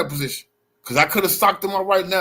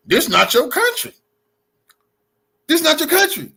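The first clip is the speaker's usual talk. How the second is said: louder and higher, hammering country; heated shout; 10 semitones higher, 4 dB louder than usual. Real, not acted. Confronting the heckler in the bar, heated shout. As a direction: shout it back at him.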